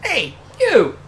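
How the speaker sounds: put-on loud, slow tough-guy voice from old New York; gangster accent. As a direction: play a pushy mobster. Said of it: "I'm gonna need you to stop talking like this".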